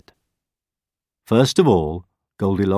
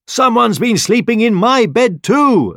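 high, loud Mama Bear voice; mother bear exclaiming; 7 dB louder than usual. A narrator's reading. Mother Bear finds her bed slept in too, exclaiming. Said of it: "exclaimed the mother bear".

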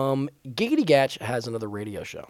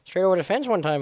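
hammed-up Baltimore local talking baseball; higher-pitched mock Baltimore accent; put-on Baltimore accent; 4 semitones higher than usual. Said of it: "we kept doing that voice".

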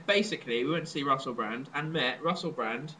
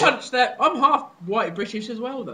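mock rant; 7 semitones higher, 8 dB louder than usual. Joking rant, loud.

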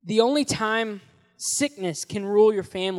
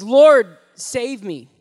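acted scream; 2 semitones higher, 13 dB louder, much slower than usual. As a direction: Lord shouted much louder, save me plain. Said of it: "he screams out".

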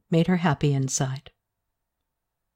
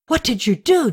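a mildly raised, higher demanding question; loud question; 8 semitones higher, 3 dB louder than usual. Acted. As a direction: press her for an answer, a bit louder. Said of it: "Daster asked loudly".

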